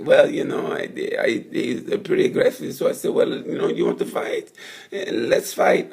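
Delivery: breathy whispered mock rider, shrugging it off; imitating Johann Zarco. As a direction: whisper it like a rider brushing off a rival. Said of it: "He's like".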